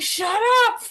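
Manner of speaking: high, loud mock snap of the husband; high loud mocking shut up; dismissive husband. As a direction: brush her off, hammed-up husband. Husband dismissing her panic.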